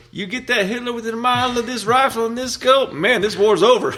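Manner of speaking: high, pinched movie sniper quote. Retold or imitated. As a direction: put on the sniper's voice from the film. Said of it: "My favorite quote was".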